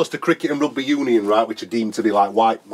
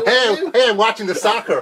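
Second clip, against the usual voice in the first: mocking laugh; 11 semitones higher than usual. Friend mocks the soccer voice.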